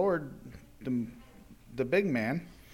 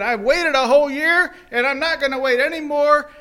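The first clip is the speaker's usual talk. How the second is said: high and loud, fed up; angry refusal; 9 semitones higher, 9 dB louder than usual. Acted. Servant refusing his debtor, loud angry outburst. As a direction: slam the door on his plea.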